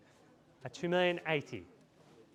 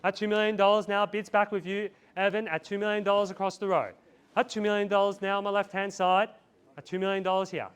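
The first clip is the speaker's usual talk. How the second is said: auctioneer call; 2 semitones higher than usual. Real, not acted. Auctioneer calling bids.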